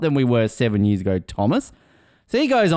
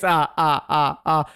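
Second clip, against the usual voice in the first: mock vampire laugh; slower than usual. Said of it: "Old Count Dracula himself".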